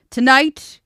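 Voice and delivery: booming declaration; loud declaration. Acted. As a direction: declare it to the hall. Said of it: "he declared".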